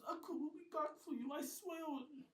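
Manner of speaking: high, loud promise; calling back. Acted. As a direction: shout back over shoulder. Nate calls back while carried.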